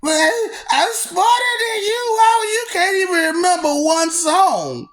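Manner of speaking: high, laughing teasing; cackling mock boast; laughing taunt. Real, not acted. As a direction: tease him through the giggles.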